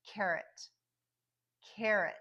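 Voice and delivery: Carrot with a reduced ut at the end; careful Carrot, ending in uh-t; schwa ending. Shown as a demonstration. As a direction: stress CARR, swallow the second vowel of Carrot. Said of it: "you just hear the schwa".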